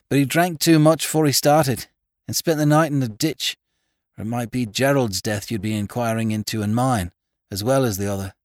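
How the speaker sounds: high, loud, intense country woman; high-pitched, distressed rustic woman; agitated farmer's wife. A narrator's reading. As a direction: press the accusation urgently. Farmer's wife tells of murder trap.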